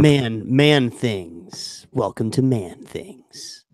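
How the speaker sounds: slow, drawn-out segment-host intro; lightly put-on manly show voice, stretching the title; Man Things voice. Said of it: "use this voice for Man Things".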